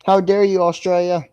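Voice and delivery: mock outrage. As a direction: pretend to be insulted. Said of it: "Just kidding".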